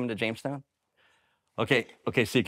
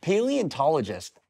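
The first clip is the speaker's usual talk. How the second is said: slow, careful echo of Paleontologist, each syllable spelled out; slow careful repeat; 5 semitones higher, slower than usual. Shown as a demonstration. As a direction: say Paleontologist slowly, sounding it out. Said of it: "you say big words".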